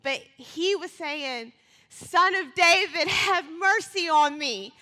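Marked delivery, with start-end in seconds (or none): 1.9-4.7 loud, high desperate cry for mercy; half-held-back shouted plea. Pretend. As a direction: call out with all you've got. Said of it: "I'm not gonna scream for you all".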